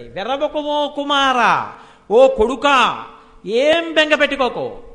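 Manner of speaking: drawn-out comfort to a frightened son; motherly reassurance. Acted. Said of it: "ఎలా అంటోందో చూడండి".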